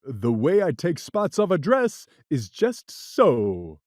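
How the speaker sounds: hearty cat brag; laughing cat. Acted. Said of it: "But the cat laughed".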